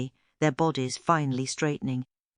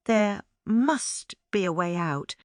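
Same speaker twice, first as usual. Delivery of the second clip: puffing; 6 semitones higher than usual. A narrator's reading. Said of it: "he puffed".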